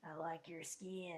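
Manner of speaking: a hint of an old-timey drawl, slow; racist accent impression. Shown as a demonstration. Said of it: "It sounds like this".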